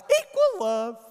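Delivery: high, loud, drawn-out outburst; mock exclamation. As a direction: proclaim it slowly, hammed up. Retells his sudden change of heart.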